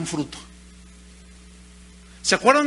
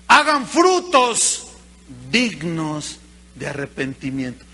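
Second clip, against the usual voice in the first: commanding; 4 semitones lower, 3 dB louder, slower than usual. Acted. The preacher ordering the congregation to bear fruit, loud and slow. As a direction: drive home the command.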